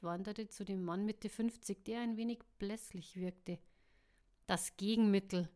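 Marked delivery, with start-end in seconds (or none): 4.5-5.5 louder, dry and terse; a mild hint of a creaky voice; dry creak. Die Frau nennt das Gegenmittel, trocken. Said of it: "knarrte die Frau trocken".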